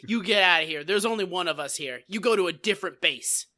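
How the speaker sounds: half-serious mock warning to a rival; Gomer Pyle. Gomer warning Forrest Gump off his base, mock territorial. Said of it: "Gomer Pyle was like".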